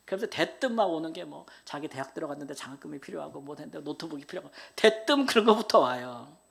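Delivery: usual speaking voice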